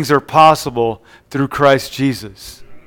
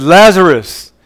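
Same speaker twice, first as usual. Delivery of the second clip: raised, louder call by name; calling into the tomb; 4 semitones higher, 6 dB louder, slower than usual. Retold or imitated. Preacher as Jesus calling into Lazarus's tomb, calling out. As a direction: call out to someone inside a tomb. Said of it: "Jesus called into the tomb".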